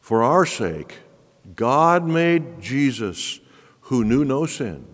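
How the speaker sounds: slow, deliberate scripture reading; slow emphatic reading for the congregation; read slowly. Shown as a demonstration. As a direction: let each phrase land with pauses. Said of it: "Let me read it slowly for you".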